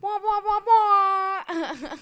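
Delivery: high, loud toy wail; mechanical crying doll. Pretend. Mocking sad trombone sound.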